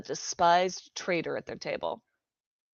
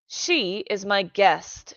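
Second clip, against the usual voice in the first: flat firm statement; 2 semitones higher, 4 dB louder, much slower than usual. Acted. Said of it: "she said flatly".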